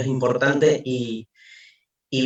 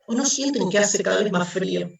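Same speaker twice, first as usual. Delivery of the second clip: anguished madman; 7 semitones higher than usual. Acted. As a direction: ask it as if the ground is gone. Madman's rising questions.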